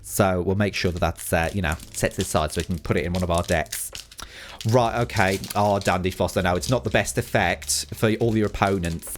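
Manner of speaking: put-on light boss-babe Essex accent. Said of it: "requested that I do everything in an Essex accent".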